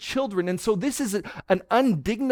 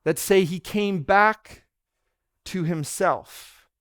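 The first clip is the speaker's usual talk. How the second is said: slowed phrase; slower than usual. Shown as a demonstration. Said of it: "I like the phrase".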